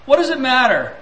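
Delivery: an annoyed father growling at his son over his newspaper; growled. Retold or imitated. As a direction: snap the question back. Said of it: "growled Daddy".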